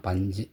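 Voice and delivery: பஞ்சு with a short, unrounded little u at the end; shortened final u. Shown as a demonstration. Teacher confirming the correct பஞ்சு, reduced final u. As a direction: keep the சு of பஞ்சு brief and reduced. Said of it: "அப்படி உச்சரிப்பீங்க".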